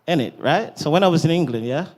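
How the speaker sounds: English accent. Shown as a demonstration. Guest gives host an example from England, English accent. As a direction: show off your English accent. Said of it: "That's my English accent".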